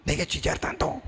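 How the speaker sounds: fast, impatient scold ending high; scolding church brother. Retold or imitated. Church member scolding a crying brother, quick impatient rebuke. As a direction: brush off a crier with a quick rebuke. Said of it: "así como a veces les dicen".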